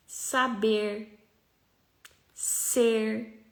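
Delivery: Goiás accent, R pulled back hard; slow Goiás accent curling every R. Shown as a demonstration. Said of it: "eu fiquei bem goianinha, né? Puxando o R".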